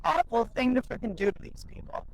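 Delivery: getting emotional. Real, not acted. Telling listeners about the employees, choked up. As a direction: voice lifting as tears come close, held back. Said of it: "If I can cry".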